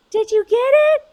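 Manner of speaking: high, loud call from upstairs; yelling down. Retold or imitated. Parent upstairs calls down to the nanny, yelling. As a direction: call out the question at a high pitch. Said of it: "she yells down and she goes".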